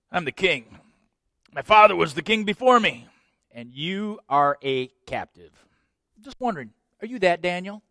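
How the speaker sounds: condescending, high and loud gloating; smug king. Acted. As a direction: rub it in his face. King rubs rank in Daniel's face.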